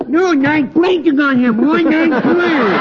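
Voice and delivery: put-on dopey punch-drunk fighter voice; washed-up boxer.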